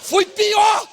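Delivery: loud, high comic preaching; fiery preaching. Acted. Pastor telling his prostate story to the church, loud and fired up. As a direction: preach it hard to the crowd.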